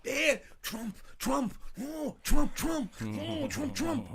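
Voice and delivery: mock shrill wife crying Trump; high whiny wailing. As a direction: wail the name way up high. Mocking wife's whine.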